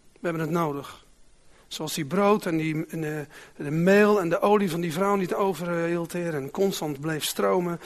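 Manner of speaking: prayer. Acted. Preacher prays before reading.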